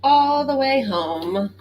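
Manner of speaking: high, slow playful roars; dinosaur roar. Acted. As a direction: roar it out for the kids. Reading the dinosaurs roaring page.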